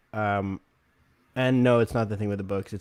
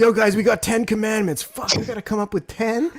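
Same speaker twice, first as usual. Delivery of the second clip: high, loud urgency with laughter; rally the guys in comic alarm; mock panic; 10 semitones higher, 5 dB louder than usual. Improvising religion with the guys, mock panicked.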